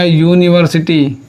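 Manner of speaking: यूनिवर्सिटी drawn out syllable by syllable; very slow syllable demo. Shown as a demonstration. Teacher slowly spelling out यूनिवर्सिटी by its sounds. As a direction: stretch out यूनिवर्सिटी slowly for the class. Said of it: "तो उच्चारण क्या आएगा?".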